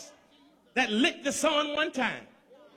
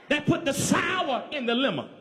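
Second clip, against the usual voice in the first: full-force preaching. Real, not acted. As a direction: drive the refrain up to a shouted climax. Preaching builds to a climax.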